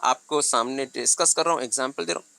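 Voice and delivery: slow, deliberate demo delivery; speaking slowly. Shown as a demonstration. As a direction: draw each phrase out slowly for the class. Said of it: "जो मैंने sentence बोले वो बहुत slow slow बोले". (धीरे धीरे बोलना)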